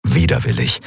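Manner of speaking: usual speaking voice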